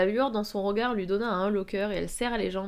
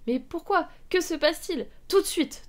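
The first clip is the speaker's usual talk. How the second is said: high, urgent, raised voice; voix tonnante; 8 semitones higher, 3 dB louder than usual. A narrator's reading. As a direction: thunder out sharp questions and an order. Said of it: "tonna Hélène". (voix forte et aiguë, tonnante)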